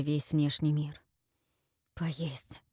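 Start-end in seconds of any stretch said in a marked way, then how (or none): 1.9-2.6 breathy whisper to himself; whispered self-urging. Acted. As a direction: murmur it unvoiced. Forcing himself to eat.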